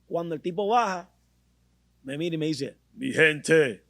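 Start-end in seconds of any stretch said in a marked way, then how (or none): 2.9-3.8 a lightly voiced deep action-star greeting; Vin Diesel voice. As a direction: channel Vin Diesel saying hi, just a touch. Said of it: "la misma voz que tú escuchas".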